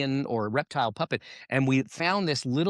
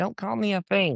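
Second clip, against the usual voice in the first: put-on frog puppet voice, pitched up; 6 semitones higher than usual. Doing a puppet bit, the puppet answers the speaker back in a Kermit voice. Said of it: "have this thing do an impression of Kermit".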